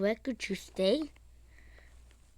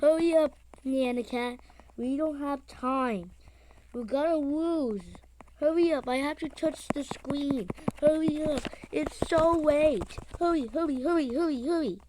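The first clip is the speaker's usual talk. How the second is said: Banana Cat urging; 2 semitones higher than usual. Pretend. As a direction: hurry her along in a cartoon voice. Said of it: "Banana Cat says".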